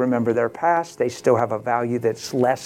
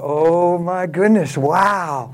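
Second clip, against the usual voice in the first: stunned amazement; 3 semitones higher, much slower than usual. Retold or imitated. Acting out his stunned inner reaction.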